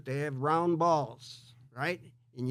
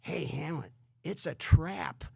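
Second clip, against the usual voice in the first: higher, slow urgent warning from a worried friend; pleading friend; 7 semitones higher than usual. Acted. Horatio warns Hamlet before the sword fight, higher and pleading. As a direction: beg him not to walk into the trap. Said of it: "his friend Horatio turns to him and goes".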